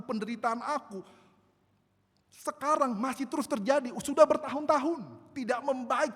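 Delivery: loud, high, impassioned sermon cry; fervent preaching. Acted. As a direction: preach it out like a desperate prayer. Preaching a prayer at full force. (khotbah berapi-api dengan suara keras)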